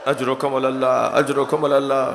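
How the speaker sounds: hushed condolence. Acted. Mourning condolence after climax.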